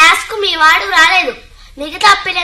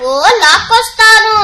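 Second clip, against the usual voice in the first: louder, laughing answer in the song; laughing reply; 4 semitones higher, 6 dB louder than usual. Acted. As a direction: laugh through the sung reply. (నవ్వుతూ పాడిన జవాబు)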